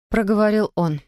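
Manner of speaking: ordinary delivery, nothing marked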